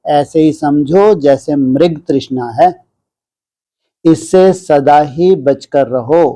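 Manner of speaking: slow, measured devotional reading; scripture reading aloud. Acted. Teacher reading a sermon to disciples, measured scripture reading. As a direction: read it out deliberately, with long pauses between phrases.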